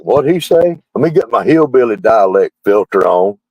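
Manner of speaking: lightly voiced confused listener; puzzled foreign viewer. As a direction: play a viewer lost in the accent. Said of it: "it's like".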